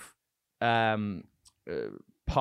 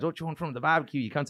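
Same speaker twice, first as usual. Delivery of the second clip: higher-pitched mock Aussie; Australian accent; 4 semitones higher, faster than usual. Comic imitating Colin serving barbecue, broad Australian accent. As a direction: offer it as a crude Australian host. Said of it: "I'm doing this Australian accent".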